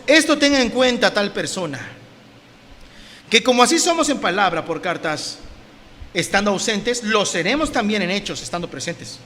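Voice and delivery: firm declaimed verse, dropping at the end; emphatic Bible reading; scripture reading. Acted. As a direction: read it out as a solemn warning. Reads scripture aloud.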